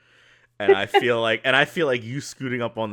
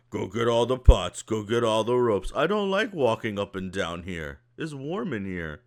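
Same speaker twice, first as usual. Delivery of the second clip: complaining ogre. Acted. Ogre laments his lost job.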